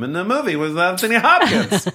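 put-on German accent. Extra imagines his big break, proud put-on German accent. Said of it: "he's got a German accent all of a sudden".

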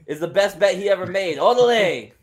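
put-on Spanish-accented wrestler laying down a challenge; Thunder Rosa, accented promo. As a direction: open on a big shout, then challenge, Spanish accent. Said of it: "allowed to do this accent".

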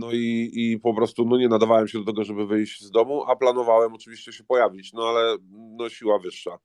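talking through a blocked nose; stuffy nose from a cold. Real, not acted. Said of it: "bo mówię przez nos".

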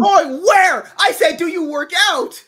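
loud, high-pitched indignant protest; exasperated outburst, high and loud. Real, not acted. Defends himself against being called gross.

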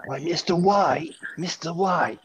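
high, drawn-out mock whine; Jesse impression. Jesse appealing to Mister White, high drawn-out impression. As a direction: stretch the name out in a high plea. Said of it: "do, do Walter White".

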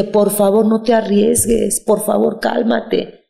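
gently acted-out begging; pleading. Woman begging her jailed relative not to take risks, pleading.

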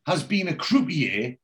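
high, loud name, then drawn-out number; dramatic punchline. Real, not acted. Host revealing trivia to co-host, dramatic punchline. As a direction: land the statistic slowly with pauses.

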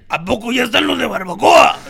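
put-on loud, high raspy old-timer voice; voz aguardentosa del Gualo. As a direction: shout it like a hoarse old rancher. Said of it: "así hablaba el Gualo". (voz de trueno aguardentosa, imitando al Gualo)

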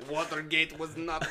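slow presidential impression; Richard Nixon. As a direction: draw it out like a caricatured president. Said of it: "I know what Nixon sounds like".

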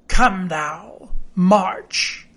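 cruel blind man's command; cruel, cold, ugly. A narrator's reading. Blind man interrupts the pleading boy, cruel and cold. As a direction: cut in coldly, brooking no argument. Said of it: "a voice so cruel and cold and ugly".

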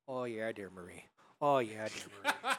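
put-on Wisconsin accent with rounded vowels; mock Midwestern Wisconsin twang. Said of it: "that Wisconsin accent".

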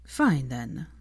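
low, soft, hard-edged concession. Acted. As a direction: grudgingly drop it, coldly. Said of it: "in an unusually hard voice".

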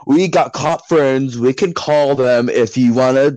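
slow, stretched caricature threat; mock threatening neighbour. Neighbours threatening to call cop friends, mock warning. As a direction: imitate self-important intimidation.

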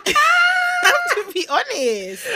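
high, loud burst of laughter; laughing hard. Real, not acted. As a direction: crack up while confessing. Laughing confession.

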